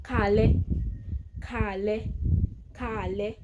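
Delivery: casual "Káalẹ́", with no "ẹ"; casual Yoruba greeting. Shown as a demonstration. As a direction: teach "Káalẹ́" for learners. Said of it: "in casual way".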